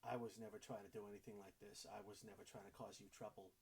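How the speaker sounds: soft, slightly subdued pleading; quiet, heartfelt assurance; earnest sincerity. Acted. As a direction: apologise as sincerely as you can muster. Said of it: "as much sincerity as he can muster".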